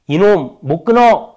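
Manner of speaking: loud, high, slow stern command; bold self-rebuke. Acted. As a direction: firmly order yourself to quit. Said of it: "하고 당당하게 자기를 이겨내는". (당당하게 자신을 꾸짖는 호통)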